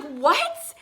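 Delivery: whispered disbelief; stunned whisper. Retold or imitated. Fan learning she can be barricade, stunned whisper.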